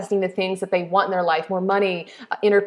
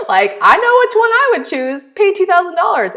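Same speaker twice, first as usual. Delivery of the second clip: much higher, louder burst; emphatic excitement; 11 semitones higher, 7 dB louder than usual. Real, not acted. Coach answering her own free-or-paid question, emphatic and excited. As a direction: blurt the obvious answer with high, loud certainty.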